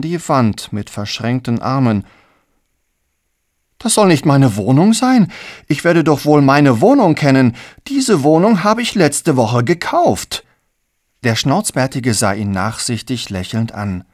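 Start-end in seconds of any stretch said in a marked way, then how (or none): 3.8-10.4 loud, higher, outraged insistence; indignant. Acted. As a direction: insist heatedly it's yours. Empörter Streit um die Wohnung. (empört und laut beharren)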